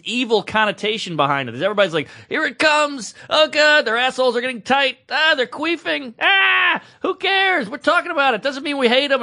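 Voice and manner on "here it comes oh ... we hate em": high, squealing mockery of nervous listeners; mock uptight listener. Mocking listeners who panic at race talk, high-pitched shrieks. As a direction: send up the prissy audience. Parodying anxious listeners' reaction.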